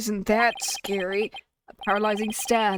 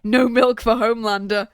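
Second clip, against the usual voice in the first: put-on squeaky girl voice, much higher and louder; Jinxie's voice; 4 semitones higher, 7 dB louder than usual. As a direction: pitch way up into a tiny girl's squeak. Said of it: "Jinxie's voice sounds like this".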